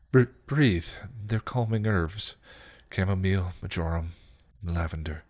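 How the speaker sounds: calm them gently, word by word; gentle. Acted. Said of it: "she said gently".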